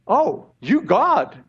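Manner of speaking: slow, weighted declaration; emphatic. Acted. Preacher voicing Peter's answer to Jesus, emphatic. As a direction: proclaim it as a certainty. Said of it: "you know, emphatically".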